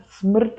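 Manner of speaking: "Smrt" with a syllabic rolled r and no vowel; "Smrt" as one Croatian syllable carried by the r; vowelless Croatian word. Shown as a demonstration. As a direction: run "Smrt" straight through its consonants. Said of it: "in eurer Sprache nicht rein".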